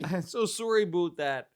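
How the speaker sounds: put-on Canadian apology with rounded vowels; mock Canadian accent. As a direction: play up Canadian sorry and about. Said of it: "transform into Canadian".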